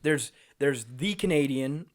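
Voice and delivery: slow teasing singsong; slow, drawn out. Acted. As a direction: stretch it out to tease. Teasing the lone Canadian.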